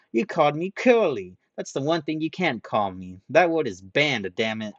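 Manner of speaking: loud, high outrage; outraged. Acted. Ranta furious at the nickname, loud and high. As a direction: explode over the banned word.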